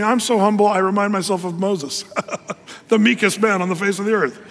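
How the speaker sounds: mock humble-brag, breaking into a laugh; laughing mock boast. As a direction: parody a proud man calling himself humble, laughing. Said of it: "It's like saying".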